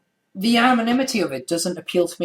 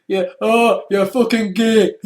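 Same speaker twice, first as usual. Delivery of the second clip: slow mock Scottish jeer; a hint of Scottish as a troll; imitating an internet troll with a touch of Scottish; lightly Scottish troll voice; 3 semitones higher, 4 dB louder, slower than usual. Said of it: "that accent was brilliant".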